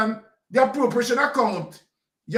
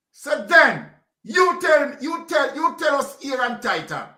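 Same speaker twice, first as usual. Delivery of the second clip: indignant demand; 4 semitones higher than usual. Real, not acted. Demanding answers from Prime Minister.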